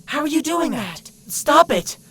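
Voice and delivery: high, alarmed, rising to a shout; freaked-out demand. Acted. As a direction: beg loudly for it to stop. Freaked out at being echoed.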